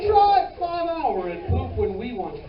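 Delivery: slow, hammed-up commercial pitch; mock advertisement. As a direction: stretch it out like an energy-shot ad. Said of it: "It should be in the advertisement".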